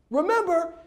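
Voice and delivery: high, slow, building to a full yell; stretched-out screaming reminder; exasperated shout. Acted. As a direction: holler the reminder in comic outrage. Erupts at audience for judging.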